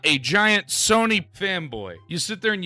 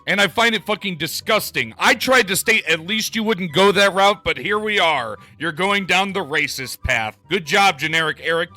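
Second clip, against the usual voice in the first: louder, heated scolding; angry callout; 3 semitones higher, 6 dB louder than usual. Real, not acted. Creator scolding a rival for his racist tweet, loud and angry. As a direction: let him have it, raised voice.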